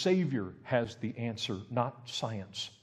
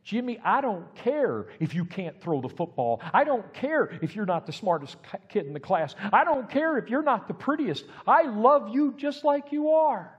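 a parent pouring out love louder and louder; loving parent pleading; 10 semitones higher, 7 dB louder than usual. Retold or imitated. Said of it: "Love is when a parent looks at you and says".

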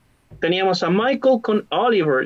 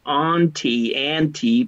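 slow model word; 3 semitones lower, slower than usual. Shown as a demonstration. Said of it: "Pueden decir aunt".

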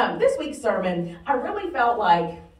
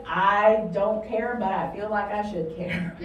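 half-hearted concern; 3 semitones lower, slower than usual. Acted. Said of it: "bless your heart that says".

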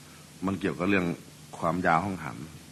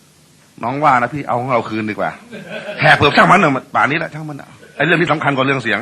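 wife pleading; 4 semitones higher, 5 dB louder than usual. Retold or imitated. Wife asks husband to reverse.

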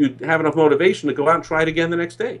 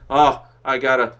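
mock grump; 4 semitones lower than usual. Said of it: "Mister Grump".

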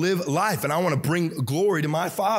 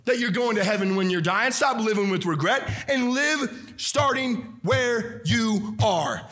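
full-force preaching; 2 semitones higher than usual. Acted. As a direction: urge them to live without regret.

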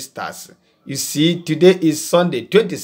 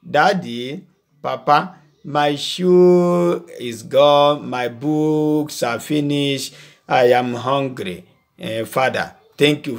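put-on polite grateful child; slower than usual. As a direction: ask gently and say thanks like a humble child. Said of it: "that son who will come to you and say".

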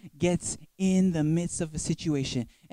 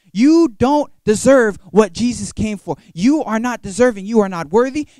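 scornful crowd; 3 semitones higher, 9 dB louder than usual. Retold or imitated. Crowd rebuking the beggar.

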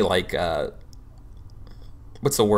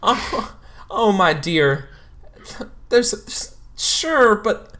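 gushing counselor; 9 semitones higher than usual. Acted. Counselor pitching her job to the student, high and gushing. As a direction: sell it like a motivational poster. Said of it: "it's like".

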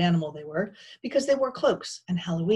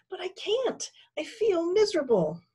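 high-pitched wretched admission; miserable lament; 13 semitones higher than usual. A narrator's reading. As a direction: admit helplessness in a high wail. Bone despairs with doomed Pearl.

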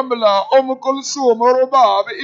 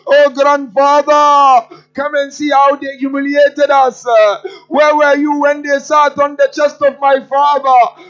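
louder, tearful cry of mourning; grieving lament; 4 dB louder than usual. Acted. Sakina calls on her grandfather, mourning and tearful.

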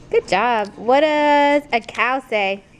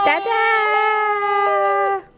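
much higher, bright cry of Dada; excited call; 11 semitones higher than usual. Real, not acted. Mother calls Dada to coax her baby. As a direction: cheer the word out.

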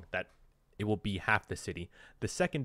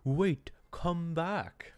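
calling back; 7 semitones higher, much slower than usual. Acted.

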